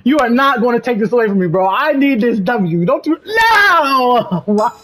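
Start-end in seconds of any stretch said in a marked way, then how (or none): 3.2-4.4 anguished cry. Real, not acted. Wail at losing the win.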